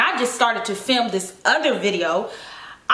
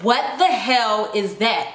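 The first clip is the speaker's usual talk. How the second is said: shocked; 3 semitones lower, slower than usual. Retold or imitated. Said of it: "And I was like".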